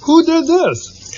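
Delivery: amazed question. A narrator's reading. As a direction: wonder who did it. Kermit asks amazed.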